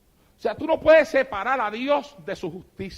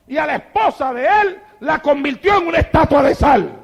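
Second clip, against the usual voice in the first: building, louder sermon delivery; fiery preaching; 4 semitones higher, 5 dB louder than usual. Acted. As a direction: preach the judgment with rising force. Preaching judgment, rising. (predicación enérgica y creciente)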